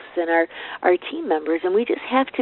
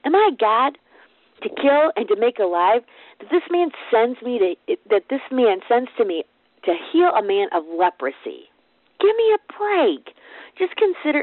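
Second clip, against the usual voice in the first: exasperated king; 3 semitones higher than usual. Acted. King rends clothes, exasperated.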